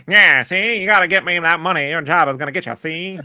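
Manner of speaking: mock gangster. Greedo as old gangster.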